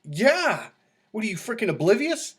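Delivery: high, loud disbelief at his buddy; like you can't believe he missed it; retold exasperated outburst; incredulous. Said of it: "I'm like".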